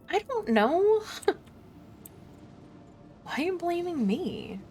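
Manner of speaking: high indignant protest; defensive outburst. Real, not acted. Defensive reply to game character.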